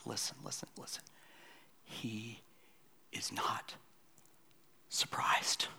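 hushed, intimate whisper. Real, not acted. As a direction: draw them in with a whisper. Hushed climax.

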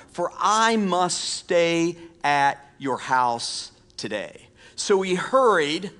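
animated, emphatic Bible reading; preacher's storytelling scripture reading. Acted. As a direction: read the story aloud, stretching the key phrases. Reads scripture aloud to congregation.

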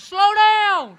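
high, loud yell of "slow down"; panicked yell. Retold or imitated. Yelling at wife towing him, panicked high shout. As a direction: shout for dear life from the mower.

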